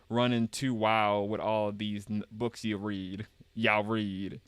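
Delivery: slow Southern grandpa grumble; Southern accent. Acted. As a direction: drawl it out, folksy Southern. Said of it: "somebody uses Southern voice".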